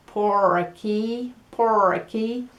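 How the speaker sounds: por aquí with a hard American R; an American saying por aquí; American accent. Shown as a demonstration. Teacher imitates Americans saying por aquí. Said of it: "I'm gonna try and imitar los estadounidenses".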